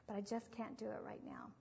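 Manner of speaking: put-on hushed whisper to the children. Mother telling her children it must wait, whispered. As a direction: keep it under your breath.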